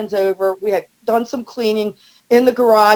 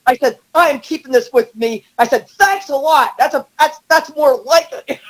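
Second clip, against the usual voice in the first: triumphant demand; 5 semitones higher than usual. Retold or imitated. Demanding the opener back.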